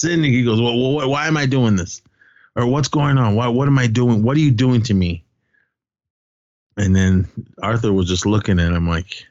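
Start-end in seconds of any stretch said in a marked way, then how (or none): 0.6-5.2 higher-pitched imitated pleading questions; retold bewildered protest. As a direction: act out a confused captive protesting. Captive questions his captors in retelling.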